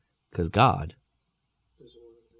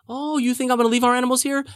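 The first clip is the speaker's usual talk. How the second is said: high, mock-incredulous challenge; scoffing; 9 semitones higher, 4 dB louder than usual. Moshe rejecting Pharaoh's offer, scoffing.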